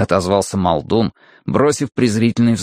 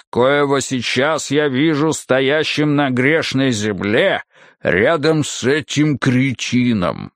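rumbling brute; 3 semitones higher, slower than usual. Acted. Muldoon's speech.

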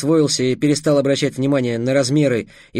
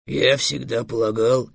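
slow, hesitant, subdued; embarrassed dragon; 3 semitones lower, slower than usual. A narrator's reading. Dragon trying to excuse himself to the fairy, embarrassed. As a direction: trail it out slowly, abashed. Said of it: "смутился Эллен".

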